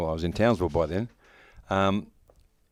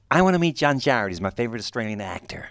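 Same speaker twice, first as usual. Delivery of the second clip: Quentin Tarantino; 3 semitones higher than usual. Retold or imitated. Actor retelling the director's arrival, excited imitation. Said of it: "just like that".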